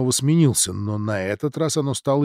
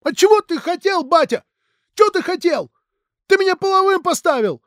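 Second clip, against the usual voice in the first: much higher, louder furious outburst; exploding; 6 dB louder than usual. Acted. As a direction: blow up at your father. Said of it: "взорвался Алексей".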